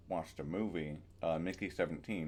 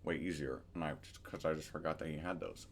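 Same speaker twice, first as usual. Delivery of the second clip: speaking with a retainer in; wearing a retainer; 3 semitones lower than usual. Real, not acted. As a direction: talk around a dental retainer. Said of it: "Also, I have my retainers in. Sorry".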